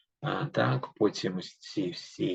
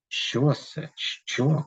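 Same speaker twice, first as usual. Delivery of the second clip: count's alarmed cry; 6 semitones higher, much slower than usual. A narrator's reading. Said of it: "кричить Бертольд".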